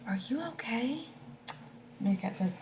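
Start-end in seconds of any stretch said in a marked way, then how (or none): 0.1-1.1 gentle whisper. Acted. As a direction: whisper it kindly to a scared friend. Checking on hiding elephant.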